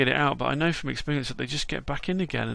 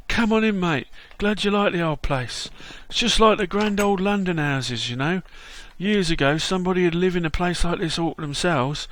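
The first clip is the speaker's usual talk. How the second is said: London Bob; 3 semitones higher than usual. Acted. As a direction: greet him like a chirpy London mate. Voices London Bob character.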